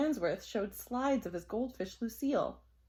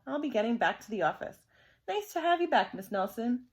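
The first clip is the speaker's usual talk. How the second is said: chirpy principal; 2 semitones higher, 4 dB louder, faster than usual. Acted. Principal leaves.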